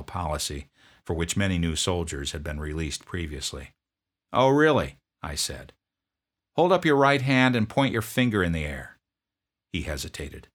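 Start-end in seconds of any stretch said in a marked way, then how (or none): 4.3-5.0 loud, higher, curt demand; drill sergeant. Retold or imitated. Drill sergeant confronting a sniffling private, loud bark. 6.6-9.0 loud, higher, curt demand; drill sergeant. Retold or imitated. Drill sergeant confronting a sniffling private, loud bark.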